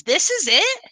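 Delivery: high, amused taunting sneer; mocking laugh. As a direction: scoff at the loser through a laugh. Seth taunts the losing drinker.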